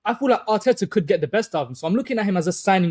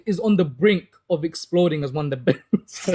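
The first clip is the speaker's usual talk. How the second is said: holding back laughter; 3 semitones lower, slower than usual. Real, not acted. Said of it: "You can't even keep a straight face".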